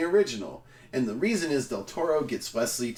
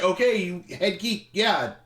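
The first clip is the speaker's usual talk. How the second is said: a hint of Harry going along; mock Harry; 7 semitones higher than usual. Mocking Harry approving the geeky writer. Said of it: "He was just like".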